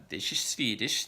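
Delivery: "This is Swedish" in a slow Swedish lilt, the w as an f; Swedish accent. Shown as a demonstration. Showing how Swedes sound in English, slow Swedish accent. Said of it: "in its kind of tonal rhythm".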